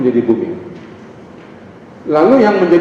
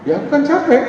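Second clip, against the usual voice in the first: higher, mock-whiny protest; whiny tired complaint; 11 semitones higher than usual. Husband whining to his wife that he is tired. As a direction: play up being worn out.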